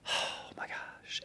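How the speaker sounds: slow, breathless whisper; stunned whisper. Retold or imitated. Narrator recognizing an old friend, in a slow whisper. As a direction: whisper it as the memory hits. Realizing who she is.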